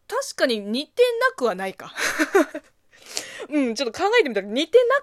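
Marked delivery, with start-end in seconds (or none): 0.1-3.5 laughing. Real, not acted. Laughing at own resemblance.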